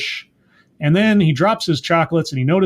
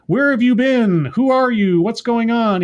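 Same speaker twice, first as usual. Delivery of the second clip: higher-pitched mock-frantic demands; frantic questioning; 6 semitones higher than usual. Recapping the upset caller questioning him, mock-frantic. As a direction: fire off worried questions, acted out.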